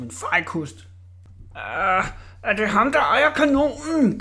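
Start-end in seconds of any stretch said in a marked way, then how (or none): 1.6-4.2 higher, rising into a frightened squeak; terrified. A narrator's reading. Orla asks the boy in fright, higher. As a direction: voice climbs in fear. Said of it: "skrækslagent".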